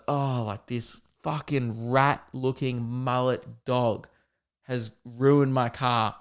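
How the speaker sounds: slow, deliberate imitation of a fuming man; mock seething. Car owner blaming the storyteller, imitated slow fuming. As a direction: spell out the insult slowly, word by word. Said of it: "so this guy's fuming".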